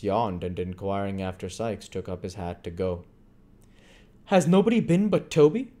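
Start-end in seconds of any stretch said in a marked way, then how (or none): 4.3-5.7 Fagin voice. A narrator's reading. Fagin voiced in read story.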